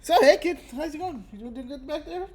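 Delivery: high, bright friendly call; high friendly check-in; cheery driver. Acted. GM voices driver.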